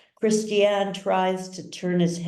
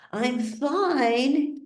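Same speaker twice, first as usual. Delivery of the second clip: light higher voice; 8 semitones higher than usual. A narrator's reading. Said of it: "he says again".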